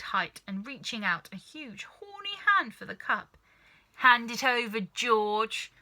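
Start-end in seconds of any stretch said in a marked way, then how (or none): 3.9-5.7 put-on louder, grabby old-woman command; demanding grandma. Grandma demanding the cup from George, louder. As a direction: snap at the boy for the cup.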